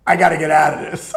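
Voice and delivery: urgent need to escape; panicked. Retold or imitated. Panicking over having to streak, fast and loud. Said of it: "I'm like".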